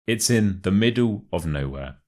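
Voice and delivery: "middle" and "nowhere" emphasised; stress on MIDDLE, NOWHERE. Shown as a demonstration. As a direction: hit "middle", then "nowhere". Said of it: "put the stress on the words middle and nowhere".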